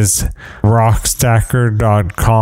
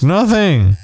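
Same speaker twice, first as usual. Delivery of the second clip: high-pitched imitation of a startled wife; mock scared; 8 semitones higher than usual. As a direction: squeak it out as if caught, hammed-up. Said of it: "it, it scares her".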